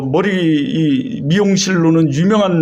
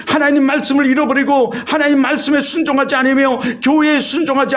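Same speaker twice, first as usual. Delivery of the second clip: higher-pitched, driving sermon delivery; preaching; 5 semitones higher than usual. Real, not acted. Pastor warning the congregation about sinful nature, preaching. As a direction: preach it in long, insistent runs.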